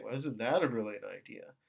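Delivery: low, soft, negative sarcasm; sarcastic. Acted. Groupmate putting down your idea, sarcastic and negative. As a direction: sneer at the suggestion under feigned praise. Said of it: "sarcastic, you know, negative way".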